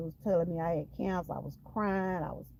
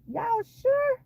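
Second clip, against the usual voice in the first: sharp high cry of disbelief; disbelieving; 4 dB louder than usual. Retold or imitated. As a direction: ask the doctors as if you can't believe it. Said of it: "I was like".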